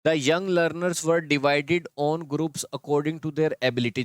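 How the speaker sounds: slow reading aloud. Shown as a demonstration. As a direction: read the wrong sentence very slowly. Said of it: "divided on groups नहीं होता".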